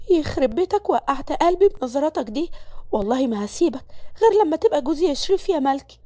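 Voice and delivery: heart pounding, half teasing; flustered young maid. Acted. Malak alone after leaving office. (ملك بتكلم نفسها بعد ما خرجت من المكتب، مرتبكة ومعجبة)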